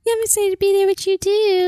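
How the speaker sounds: high, sweet cute voice. Acted. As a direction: coo it like a sweetheart. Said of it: "What voice was that?".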